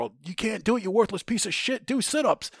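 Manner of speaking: high, climbing imitation of a berating sergeant; retold high-pitched yell; yelling drill sergeant. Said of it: "they're yelling at you".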